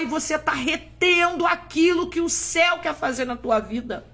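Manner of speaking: climbing sermon call to obey; fervent preaching. Acted. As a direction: build to a pleading exhortation. Preaching climax.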